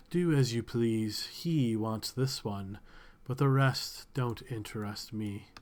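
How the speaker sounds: slow, languid brush-off; woman waving off the masked creature, slow and bored; lazy and bored. Acted. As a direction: drawl it out like nothing matters. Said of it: "turns back her head very lazily".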